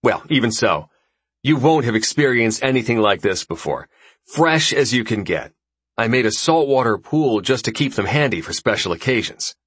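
lightly voiced breezy host; easygoing dinner host, a bit brighter; casual host voice. Raxus boasting about lobster.

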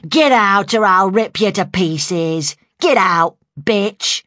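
loud, threatening, gruff man's shout; gruff masculine voice. A narrator's reading. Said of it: "in a gruff, masculine voice".

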